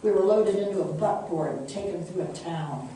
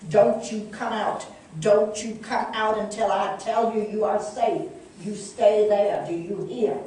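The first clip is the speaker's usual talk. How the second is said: urgent command; 4 semitones higher, 6 dB louder than usual. A narrator's reading. Mother ordering boys to stay hidden.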